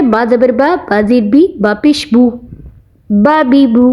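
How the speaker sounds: "बा", "बी", "बू" kept brief, no stretching; quick reading. Shown as a demonstration. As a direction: model each syllable promptly, then "बा बी बू" together. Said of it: "जल्दी से".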